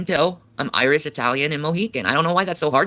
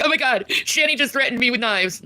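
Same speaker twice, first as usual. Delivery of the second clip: mock mom; 11 semitones higher than usual. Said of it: "And she's like".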